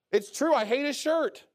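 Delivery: hammed-up catty remark; gossip. Gossip justifying a catty remark, lightly mocked. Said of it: "what you shouldn't be doing?".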